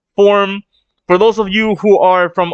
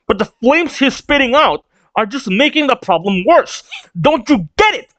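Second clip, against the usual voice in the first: exasperated sarcastic scolding, climbing higher; pissed off, acted; 3 semitones higher than usual. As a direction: scold them, building to a high finish. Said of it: "And so she is pissed".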